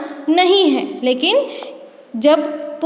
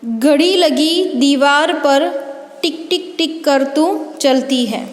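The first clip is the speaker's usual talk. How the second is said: put-on sing-song recital for children; poem recitation. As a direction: recite the little clock poem to the class. (बच्चों के लिए कविता पाठ)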